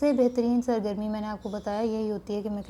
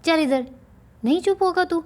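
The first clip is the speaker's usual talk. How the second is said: angry mother; 3 semitones higher than usual. Acted. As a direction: drag the child off yelling. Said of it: "ماں اسے غصے ہوتے".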